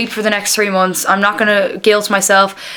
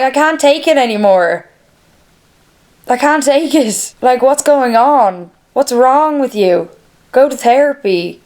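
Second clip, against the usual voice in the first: higher, pleading exasperation, slowed down; exasperated; 4 semitones higher, 3 dB louder than usual. Retold or imitated. Owner scolding her crying cats, exasperated and higher. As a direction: beg the cats to stop, at the end of her rope. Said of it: "I'm like".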